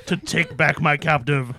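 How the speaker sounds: theatrical demon pronouncement. Acted. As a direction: intone it like a scornful demon. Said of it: "From my demon voice".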